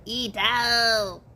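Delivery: a lightly voiced E.T. calling out; a light hint of E.T. calling to the helicopter. Caveman calling to a helicopter, in a light E.T. voice. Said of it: "I said it in E T's voice".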